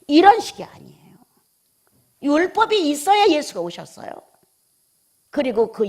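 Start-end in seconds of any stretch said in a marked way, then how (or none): 0.1-4.1 loud hushed insistence; emphatic denial. Real, not acted. Preacher to congregation, rejecting a false teaching with a loud, forceful denial. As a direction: cut the wrong idea off hard. Sharp rejection after mock claims.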